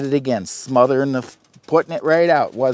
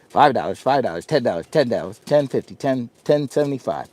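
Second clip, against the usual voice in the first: auctioneer impression; faster than usual. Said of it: "you'll think I'm an auctioneer".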